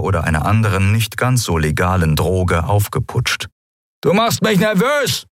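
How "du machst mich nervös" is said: pitched-up thug ordering a prisoner to sit; hopped-up pirate. Acted. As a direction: snarl it like a pirate jittery on drugs. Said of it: "seine Stimme von Silberfeuer ... aufgeputscht".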